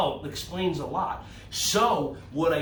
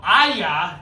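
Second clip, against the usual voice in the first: karate yell; 7 dB louder than usual. Shown as a demonstration. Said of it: "I want you just to yell".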